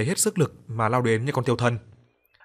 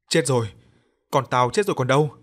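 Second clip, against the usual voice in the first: louder grieving wail; 2 semitones higher, 5 dB louder than usual. Acted. Father wailing over his dead daughter, mild loud wail. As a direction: cry out the loss of the child. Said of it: "ngồi gục xuống mà khóc thét".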